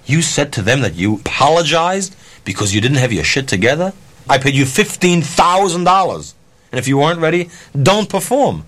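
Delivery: indignant reenacted telling-off, pitch climbing toward the end; retold scolding. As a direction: reenact chewing out a performer, without full yelling. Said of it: "I'm yelling and screaming at her".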